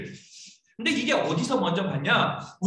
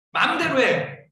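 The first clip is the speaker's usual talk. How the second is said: mock parental ultimatum, pitched up; raised-voice mock exasperation; exasperated parent; 4 semitones higher, 4 dB louder, slower than usual. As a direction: act out a fed-up parent. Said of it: "가장 센 게".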